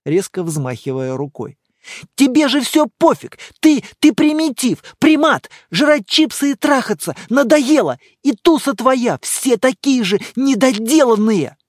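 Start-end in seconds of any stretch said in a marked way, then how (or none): 2.2-11.6 much higher, louder raging outburst; furious shouting. Acted. Girlfriend screaming insults at boyfriend, furious. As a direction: scream insults at him in fury. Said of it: "бессвязно и яростно ... выкрикивала".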